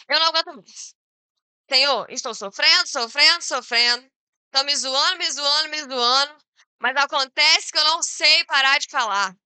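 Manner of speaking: insistent, repetitive plea of suffering; lamenting. Acted. Prophet complaining to the Lord of mockery, lamenting. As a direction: cry out an acted lament, piling up the repeats. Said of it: "ele se lamenta e fala".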